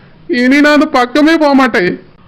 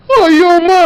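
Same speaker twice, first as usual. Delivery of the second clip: fake pain; 4 semitones higher, slower than usual. Husband fakes a stomachache.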